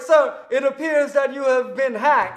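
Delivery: slow Middle Eastern scam-caller voice; imitated Middle Eastern accent. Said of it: "a Middle Eastern accent comes on".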